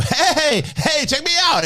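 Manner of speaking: high, excited attention-seeking call; eager dog voice. Retold or imitated. Describing older daughter as an eager dog, high and excited. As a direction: bounce it like a puppy showing off. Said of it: "the dog wants to run and go".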